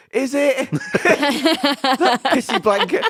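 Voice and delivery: high, laughing scoff; mocking a homeless man's cheer; laughing disbelief. Real, not acted. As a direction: laugh through a sceptical "is it?". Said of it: "And I thought".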